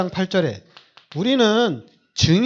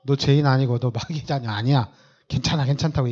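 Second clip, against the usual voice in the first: gentle reassurance; 6 semitones lower than usual. Shown as a demonstration. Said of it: "그럼 얘기하세요".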